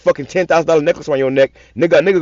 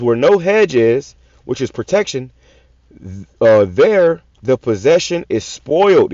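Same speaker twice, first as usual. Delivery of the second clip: slow, weighty reading of a verse; scripture reading; 2 semitones lower, slower than usual. Acted. Preacher reading a verse to his listeners, slow and weighty. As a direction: read the verse slowly, like a preacher.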